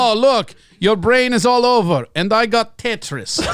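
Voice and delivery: gloating mock Russian; Russian accent. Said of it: "you can do a Russian accent".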